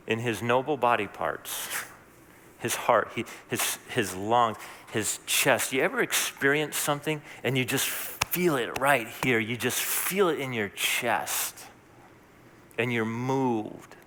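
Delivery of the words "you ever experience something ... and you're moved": tender. Real, not acted. Tender appeal to feeling.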